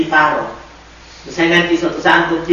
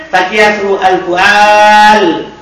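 slow dictation; much slower than usual. Shown as a demonstration. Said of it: "teacher dictating Arabic form".

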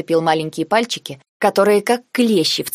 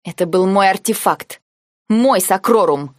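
медленно и твёрдо, с нажимом на «мой»; отрезать, отстаивая своё; рявкнула; 2 semitones higher, 3 dB louder, slower than usual. Acted. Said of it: "рявкнула я". (сдержанно рявкает, давя на «мой»)

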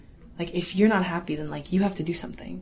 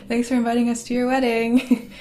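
sarcastic; 6 semitones higher, 8 dB louder than usual. Retold or imitated. Sarcastic quote to father.

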